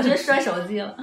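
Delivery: ordinary talk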